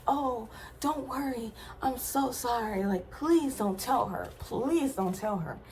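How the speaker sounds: slightly high, mock-sorry plea; apologetic pleading. Roommate begging her not to tell, mock apologetic pleading. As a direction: imitate someone begging forgiveness. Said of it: "he was super apologetic".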